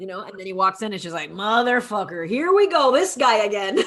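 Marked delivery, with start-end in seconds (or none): 1.3-3.8 mock exasperation. Voicing her exasperation at him.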